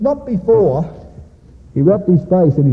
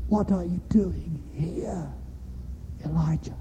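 still small voice; 14 dB quieter than usual. Acted. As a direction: ask it gently, almost in a whisper, word by word. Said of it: "a voice to him".

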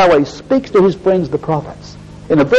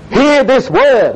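slow, higher, drawn-out call of the prophet; slow proclamation; 6 semitones higher, much slower than usual. Acted. Preacher to congregation, quoting Amos, slow proclaiming call. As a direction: proclaim each word slowly like a summons.

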